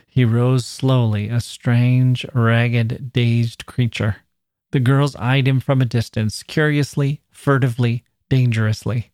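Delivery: measured, even read-aloud narration; story narration. A narrator's reading. Narrator tells of the girl confronting him, measured narration.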